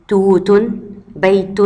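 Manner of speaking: توت and بيت with a clearly sounded final t; open t pronounced. Shown as a demonstration. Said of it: "كده كده بتتنطق تاء".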